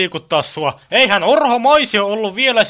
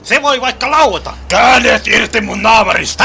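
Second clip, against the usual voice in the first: raised-voice alarm, building to a shout; agitated shouting. Acted. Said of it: "Älä huuda!". (kiihtynyt huuto)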